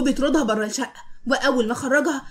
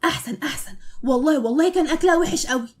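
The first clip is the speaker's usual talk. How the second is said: gleeful; 3 semitones higher than usual. Acted. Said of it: "عمال يضحك".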